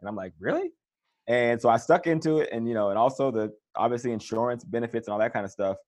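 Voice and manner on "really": disbelieving really. Retold or imitated. Disbelief at second contract idea.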